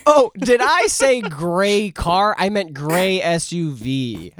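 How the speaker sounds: slow, drawn-out mock correction; teasing correction. Joking about the car description, slow and teasing. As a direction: correct yourself slowly, tongue in cheek.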